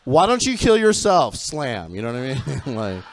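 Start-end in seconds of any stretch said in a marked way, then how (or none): 0.0-1.4 sassy put-down. Retold or imitated. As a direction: cut him down with mock disdain. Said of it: "And I'd be like".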